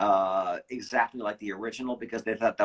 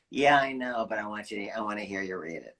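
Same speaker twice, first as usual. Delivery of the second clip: smoker's voice; 2 semitones lower than usual. Retold or imitated. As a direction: talk like a tired casting director who smokes. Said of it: "he talked like this".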